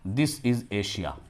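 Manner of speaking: slow naming. Shown as a demonstration. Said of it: "एशिया नहीं बोलेंगे".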